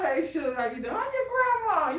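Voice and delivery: mock the "How your grandma" small talk; mocking friendly greeting. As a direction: tease the friendly country hello. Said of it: "ain't no".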